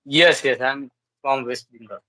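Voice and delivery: ordinary delivery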